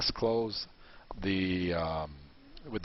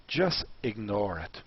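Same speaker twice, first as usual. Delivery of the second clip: slow emphasis; 3 semitones lower, slower than usual. Shown as a demonstration. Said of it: "the first thing you should do".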